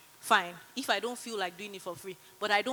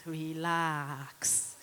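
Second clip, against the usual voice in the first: relax drawn out lower and softer; soothing relax; 5 semitones lower, 4 dB quieter than usual. Shown as a demonstration. Telling the audience to relax, soothing and lower. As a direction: ease it down like a calm sigh. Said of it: "one of the other things I like to say".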